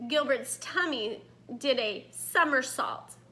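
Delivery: put-on lively read-aloud to young children; story narration. A narrator's reading. Teacher reading a story to her students, lively read-aloud. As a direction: tell it like a picture book to the class.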